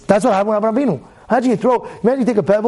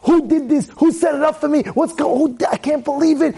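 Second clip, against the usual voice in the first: frantic; 6 semitones higher than usual. Retold or imitated. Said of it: "break down in tears".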